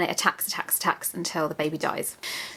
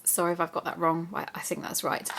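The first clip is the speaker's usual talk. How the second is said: whispering; 6 dB quieter than usual. Real, not acted. Aside apology, unvoiced.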